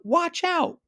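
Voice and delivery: high, loud alarmed yell; yelled warning. A narrator's reading. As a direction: cry out a warning. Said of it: "and then he yelled".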